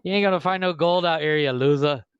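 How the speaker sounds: put-on taunting Boston accent; Boston bear. The bear mocks the gold miner, Boston accent. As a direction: heckle like a Boston bully, dropping R's. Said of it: "The Boston Bear".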